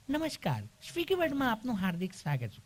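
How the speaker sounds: mock IVR recording voice; automated phone menu. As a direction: recite like a machine menu.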